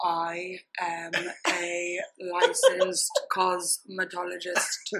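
slow, deliberate, word by word. Shown as a demonstration. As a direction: say it slowly, spacing out each word. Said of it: "Let's start slow".

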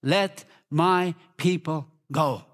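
slow, deliberate, word by word; measured command. Shown as a demonstration. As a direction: space out each word. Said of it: "say really loud and authority".

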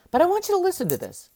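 fast confiding whisper. Acted. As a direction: lean in and whisper it quickly. Coach draws listeners in close.

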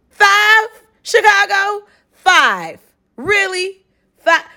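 high, incredulous questions; can't believe the ranking; host reacting to her hometown coming fifth, high and incredulous; disbelief. Real, not acted. Hometown ranked only fifth.

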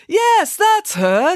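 high, slow, delighted cry; happy. A narrator's reading. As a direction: draw it out with joyful recognition. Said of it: "said Binky happily".

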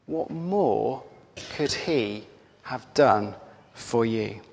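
soft, slow and weighty; hushed, earnest question to the congregation; solemn reassurance. Real, not acted. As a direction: let each phrase land gently, with pauses. Solemn answer to the doubter.

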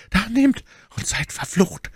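high-pitched, bitter lady's voice; cursing Milady. A narrator's reading. Milady handing Athos the paper under threat, high cursing voice. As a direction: hurl the curse in a high character voice.

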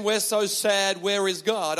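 slow, moping mock complaint; a hint of sulky self-pity; mock sad lament. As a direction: drag it out like a gloomy prisoner. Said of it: "they're not singing".

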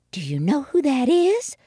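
high-pitched stage murmur; hushed townfolk question. A narrator's reading. Townfolk wondering about the coyote, high awed voice. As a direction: ask it high, as an awed onlooker. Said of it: "the townfolk whispered".

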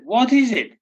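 put-on high-pitched old lady voice, slowing at the end; deaf old lady. Deaf old lady asks Alf Leggett about the bang, high old lady voice.

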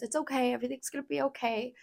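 very soft, hushed reassurance; comforting nurse. Retold or imitated. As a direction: soothe gently, as a nurse to a frightened patient. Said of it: "coming over to me and rubbing my head".

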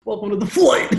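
high, sweet cabin-crew greeting; bright hostess welcome, laughing; mock air hostess. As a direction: play a chirpy flight attendant welcoming passengers.

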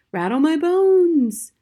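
slow, high ghostly wail; haunting parrot voice, long vowels; spooky voice. A narrator's reading. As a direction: draw it out like a ghost. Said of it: "soft and spooky this time".

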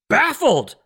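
BAFFLED drawn out with exaggeration; mock bafflement. Host mocks confused history professors, exaggerated bafflement. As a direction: stretch the word in sarcastic disbelief.

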